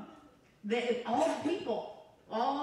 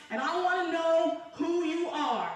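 raised, higher-pitched desperate plea; retold screaming out; 5 semitones higher, 3 dB louder than usual. Woman retells crying out to Jesus from the floor, mild retold scream. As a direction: re-enact a cry to God, voice pushed up. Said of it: "I'm screaming out to him".

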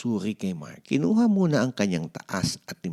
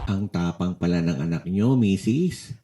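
smiling; 3 dB louder than usual. Acted. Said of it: "Nakangiting sabi ni Doc".

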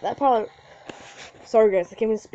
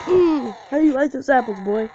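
gloating taunt; 3 semitones higher, 4 dB louder than usual. Real, not acted. Gamer taunting the beaten opponent, gloating loudly. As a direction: rub the win in his face.

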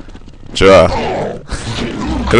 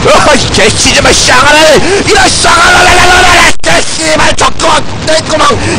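high-pitched real rage, cursing at full tilt; enraged screaming; 8 semitones higher than usual. Real, not acted. Gamer cursing teammates who will not listen, enraged screaming. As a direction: lose your temper completely, screaming high. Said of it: "제가 소리를 질러서".

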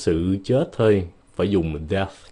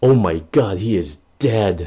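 shocked; 4 dB louder than usual. Acted. Example sentence acted out in shock.

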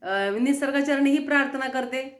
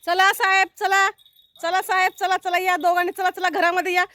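raised, higher herding call; calling pets in; 6 semitones higher, 4 dB louder than usual. Real, not acted. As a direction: call the pets briskly indoors. (प्राण्यांना घरात बोलावणारी मोठी, चढी हाक)

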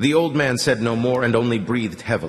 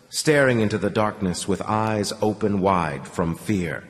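ordinary delivery

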